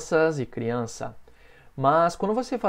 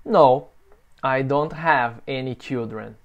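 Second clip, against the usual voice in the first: slow model answer; slower than usual. Shown as a demonstration. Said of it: "Pergunta pra mim".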